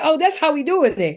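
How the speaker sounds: high-pitched mock indignation; upset, affronted. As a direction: act offended at being slighted. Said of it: "That's why she was so upset".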